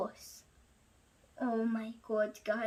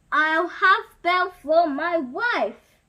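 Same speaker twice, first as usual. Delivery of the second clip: vowed; 6 dB louder than usual. Acted. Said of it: "he vowed".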